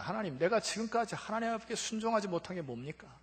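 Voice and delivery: rising, loud indignant complaint; retelling the pharmacist's angry complaint to God; protesting to God. Retold or imitated. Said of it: "하나님께 따지기 시작합니다".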